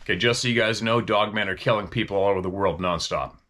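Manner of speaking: brisk, matter-of-fact statement; mock-authoritative declaration; confident announcement. Shown as a demonstration. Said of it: "Imagine if I said that sentence and delivered it that way".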